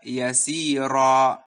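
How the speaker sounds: slow yasira with lengthened vowels; recited yasira. Shown as a demonstration. Teacher reciting the example word.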